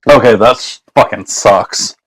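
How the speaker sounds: talking around sticky candy; words through a sticky mouthful; chewing sticky toffee. Real, not acted. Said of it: "it's stuck to my teeth".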